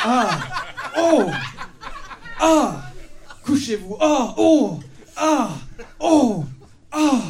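loud high hammed-up cries; overacted parody moaning, shouted; mock cries of pleasure. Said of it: "je joue et je crie". (cris de plaisir parodiques, forts et aigus)

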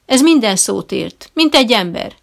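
loud, emphatic claim on minden; booming boast. A narrator's reading. Trainer boasting to the visitor, loud. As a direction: proclaim it like a circus showman. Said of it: "folytatja harsányan".

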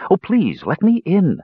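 high, piping plea; a wren begging the mage to open the door; pleading bird voice. A narrator's reading. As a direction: beg in a tiny high bird voice. Wren begs to be let in.

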